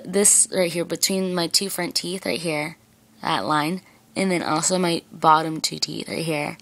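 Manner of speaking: talking with lips held down; speaking with fingers in mouth; fingers pulling lip. Real, not acted. Seen 0: Fingers pull lips down to show braces throughout labelled words.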